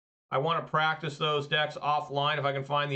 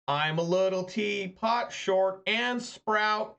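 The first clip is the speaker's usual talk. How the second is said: mocking dumb coworker; 4 semitones higher, slower than usual. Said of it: "he's like".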